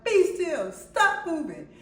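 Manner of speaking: loud, high retold commands; acted-out sharp yell; yelling at son. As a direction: snap the orders out at a child. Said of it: "I'm yelling at my son".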